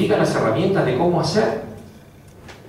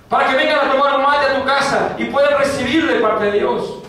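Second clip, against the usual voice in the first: full-force preaching; 11 semitones higher than usual. Acted. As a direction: rebuke the listener from the pulpit. Preaching exhortation.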